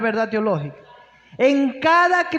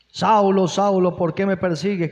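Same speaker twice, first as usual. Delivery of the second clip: lower, solemn voice of Jesus calling out; 6 semitones lower than usual. Acted. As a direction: call him by name from above, lower and grave. Preacher voices Jesus calling Saul.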